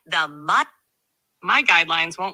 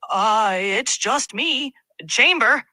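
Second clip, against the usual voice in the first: startled; 3 semitones higher, 3 dB louder, slower than usual. Acted. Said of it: "Chamber, startled, replied".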